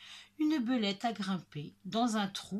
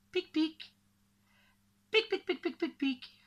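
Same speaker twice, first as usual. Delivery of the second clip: rapid high "pic" noises; squirrel chirps; 7 semitones higher than usual. Acted. Squirrel noises after the hazelnut. (rafale de petits « pic » aigus)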